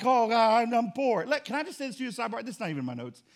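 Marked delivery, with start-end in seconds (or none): 0.0-1.3 mock poor whine. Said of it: "Not like".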